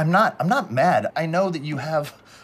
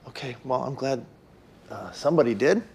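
whispered bitterness; 2 semitones lower than usual. Acted. Bitter hushed reply on phone.

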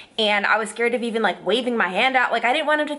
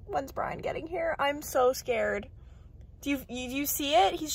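scared whisper; 5 semitones higher, 8 dB quieter than usual. Real, not acted. Reporter alone in her car, whispering in fear. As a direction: whisper it, afraid of being heard.

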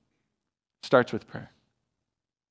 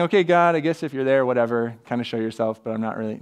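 half-hearted prayer; 3 semitones lower, faster than usual. Pretend. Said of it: "this isn't just going".

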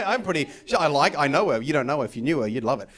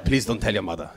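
sheepish Bumblebee. Retold or imitated. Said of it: "the voice goes".

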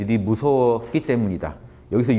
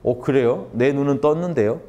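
cheeky retort; 3 semitones higher than usual. Retold or imitated. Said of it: "말을 치는 게 이거예요".

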